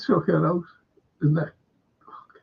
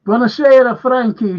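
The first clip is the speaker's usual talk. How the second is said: put-on loud, higher Italian accent; Italian greeting; 8 semitones higher, 8 dB louder than usual. Italian host greeting Frankie, mock Italian accent. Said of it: "says the Anfield".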